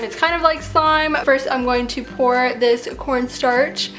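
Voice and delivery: slight lisp from braces; talking around tight braces and bands. Real, not acted. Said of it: "I got my braces tightened yesterday".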